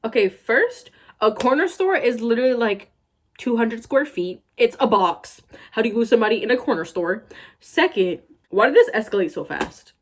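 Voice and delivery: exasperated rant. Real, not acted. Ranting at the fanfic plot.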